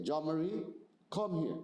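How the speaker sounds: firm, serious summons that means trouble; stern call. Shown as a demonstration. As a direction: call her so she knows something's wrong. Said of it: "the tone of my voice ... tells her something's wrong".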